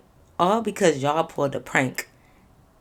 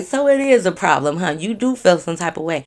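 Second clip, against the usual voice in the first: laughing taunt; 5 dB louder than usual. Retold or imitated. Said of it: "I was laughing like that".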